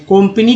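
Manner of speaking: कंपनी with "o" in the first syllable; alternative pronunciation. Shown as a demonstration. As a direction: say कंपनी as "kom-pa-nee". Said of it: "कंपनी क्यों नहीं बोलते".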